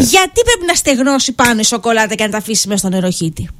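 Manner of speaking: exasperated rant at normal volume; getting angry. Real, not acted. Host venting about the dirty spoon in the sink, getting angry. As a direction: rant about a pet peeve, riled up. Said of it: "τώρα γιατί θυμώνεις".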